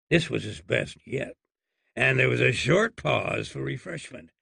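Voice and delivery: plain reading voice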